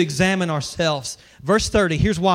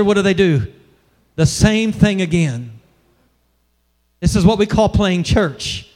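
usual speaking voice

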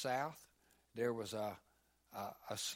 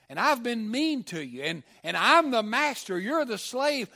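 raised, loud, pressing questions; loud and higher, demanding an answer from the slave; master's loud demand; 8 semitones higher, 11 dB louder than usual. Acted. Cruel master loudly pressing his slave for answers.

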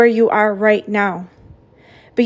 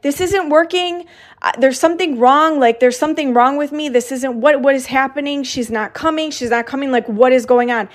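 retold panic to doula; 2 semitones higher than usual. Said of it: "saying that to my doula over and over".

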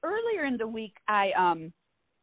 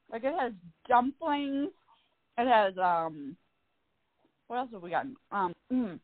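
talking while eating; words around a bite of food; mouth full. Real, not acted. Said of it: "sorry, I'm eating right now".

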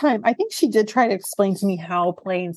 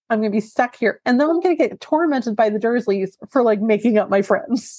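upset Harry. Retold or imitated. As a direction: whine it like a teen who's stuck at home. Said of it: "Harry's upset 'cause he's like".

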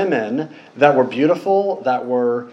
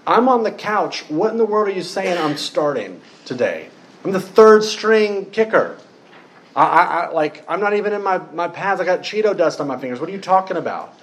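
higher-pitched, baffled objection; incredulous protest; 3 semitones higher than usual. Acted. Gideon objecting to God's call from the couch, incredulous protest. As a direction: act out a reluctant nobody protesting.

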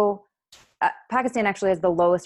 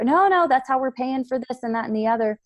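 mock-insistent wife; 6 semitones higher than usual. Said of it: "role play in the skit".

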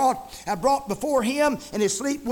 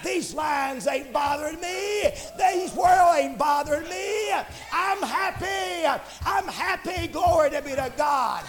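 jubilant preaching; 3 semitones higher than usual. Real, not acted. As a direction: proclaim the good news with rejoicing. Preaches at full force.

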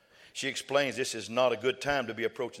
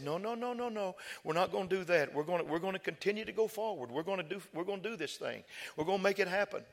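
tender reassurance; 6 semitones higher, 5 dB quieter than usual. Retold or imitated. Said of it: "he was just tender".

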